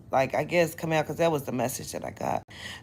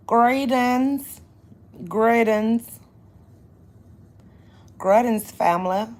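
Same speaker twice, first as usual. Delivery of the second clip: loud greeting; 4 semitones higher, 6 dB louder, slower than usual. Acted.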